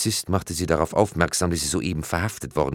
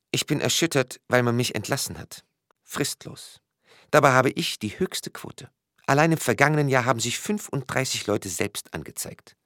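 high-pitched, aggrieved official; shaken tax commissioner; 9 semitones higher than usual. A narrator's reading. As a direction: complain in a high character voice. Tax commissioner's dismayed complaint.

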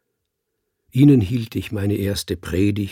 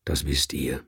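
whisper; 7 semitones lower, 6 dB quieter than usual. Acted. Solemn speech drops to whisper.

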